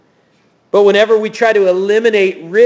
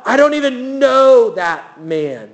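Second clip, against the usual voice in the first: angry denial; 4 semitones higher, slower than usual. Retold or imitated. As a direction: hammer out the denial like cornered Peter. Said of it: "And he cusses".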